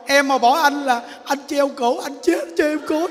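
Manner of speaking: comic pleading that climbs high by the end; hammed-up, blubbering ultimatum; mock tearful threat. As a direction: imitate a desperate husband threatening his wife. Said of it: "Con năn nỉ nó".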